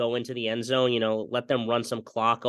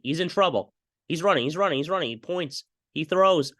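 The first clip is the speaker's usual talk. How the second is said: 1 building play call; 4 semitones higher than usual. Acted. Live play-by-play building tension.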